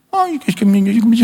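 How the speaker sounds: high mock baby talk from an old man. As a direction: coo it like a grandparent playing baby. Mocking old people's baby talk.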